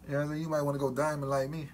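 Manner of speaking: talking with lips stretched open; lips pulled back by fingers. Real, not acted. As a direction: fingers holding mouth wide. Seen 0: gloved fingers hold lips apart, showing teeth throughout the words.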